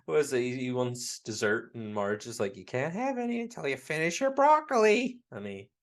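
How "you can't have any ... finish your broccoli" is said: raised, high-pitched mock scolding; scolding mother. Wife refusing dessert until dinner is finished, scolding. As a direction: lay down the law, pitched up. Acted scolding Marge quote.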